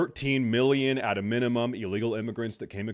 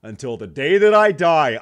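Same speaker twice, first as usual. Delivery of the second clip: sudden shout; 5 semitones higher, 12 dB louder than usual. Real, not acted. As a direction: burst out loud with the vow. Vow after quiet line.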